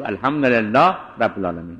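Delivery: الحمدلله vowelless at the end, run into رب; joined with sukun. Shown as a demonstration. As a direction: go from the h of الحمدلله straight to رب. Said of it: "این وصل به سکونه".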